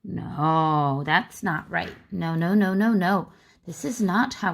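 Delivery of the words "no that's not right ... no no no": teacher's mock no. Shown as a demonstration. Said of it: "Do we write happy like this".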